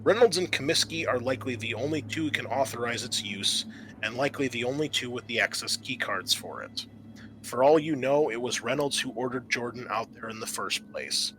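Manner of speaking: steady, measured scenario narration; game master scene setting. Acted. GM reading the intro to the players, measured narration. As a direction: set the scene for the players like a briefing.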